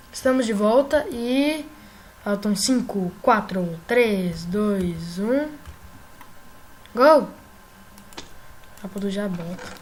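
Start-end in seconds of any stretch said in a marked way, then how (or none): 2.2-5.5 countdown. Real, not acted. Counting down to restart. 6.9-7.3 loud celebratory shout; goal shout. Real, not acted.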